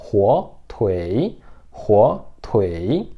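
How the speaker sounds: huo tui with a gliding U-E-I; Mandarin demo. Shown as a demonstration. Teacher drills students on Mandarin huo tui. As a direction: model huo tui twice for repetition. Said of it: "huo tui é presunto".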